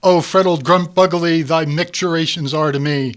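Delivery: pompous Vogon poetry. Acted. Proud poet reciting his awful verse, loud and grand. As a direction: hams up dreadful alien poetry for his friends. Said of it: "I can't beat Vogons when it comes to poetry".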